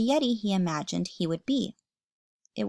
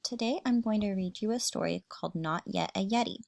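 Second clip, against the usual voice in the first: bright friendly hello to the class; teacher greeting; 3 dB quieter, faster than usual. Acted. Teacher opening a read-aloud for her class, friendly. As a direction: welcome the children warmly.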